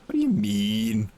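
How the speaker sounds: low, slow mock puzzlement. Repeats question in another voice.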